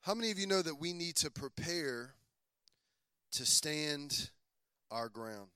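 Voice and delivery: low, soft, intimate sermon voice; soft preaching. Acted. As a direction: draw them in quietly and gently. Quiet intimate preaching stretch.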